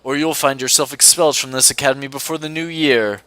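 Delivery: a cold British professor handing out punishment; British accent. Acted. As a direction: lay down the law in a clipped British accent. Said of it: "I have to do an accent for him".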